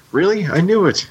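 high, eager burst of mock delight; excited. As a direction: yelp it out like a thrilled young cadet. Cheetor thrilled Optimus survives.

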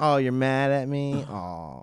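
solicitous. Pretend. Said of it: "treat her like a senile animal".

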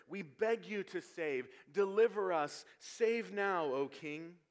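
loud, emphatic cry for rescue; crowd's fervent plea. Retold or imitated. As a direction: plead out loud like the crowd hailing its king. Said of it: "Literally, they're saying".

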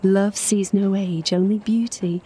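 a hint of a slow, romantic drawl; imitated lover's drawl. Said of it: "say in that deep Latin-tinged Phoenix drawl".

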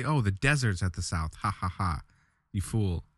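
mocking king. Player imagining the king mocking his answer, lightly voiced. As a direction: lightly ham up a gloating king. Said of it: "He could laugh at me and say".

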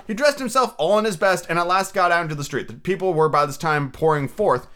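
animated storybook reading, lifted above chat; story narration. Acted. Reader tells of Scrooge's shaky morning shave, animated narration. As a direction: read it out with lively storyteller phrasing.

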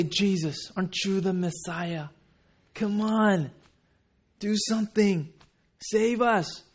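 mock entitled pleading, insistent; demanding. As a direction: order God to act. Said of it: "to those who demand God to move".

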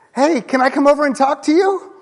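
high, cheery greeting over the fence; friendly neighbor. Retold or imitated. Neighbor Jim greeting Jeff over the backyard fence, high and cheery. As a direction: call out like an eager neighbor.

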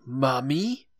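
old man impression. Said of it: "impersonation properly, I have to say".

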